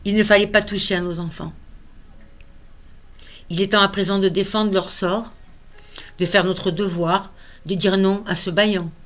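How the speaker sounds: measured verse with emphatic key words; earnest poem recitation. Acted. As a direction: recite a solemn vow, pausing between lines. Reads own poem aloud.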